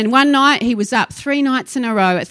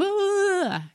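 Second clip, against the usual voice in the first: high, soft drawn-out groan; mock groan; 9 semitones higher, 5 dB quieter than usual. Preacher mocking passive believers, drawn-out mock groan. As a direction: groan like someone helplessly sitting there. Mocks sitting there passively, helpless.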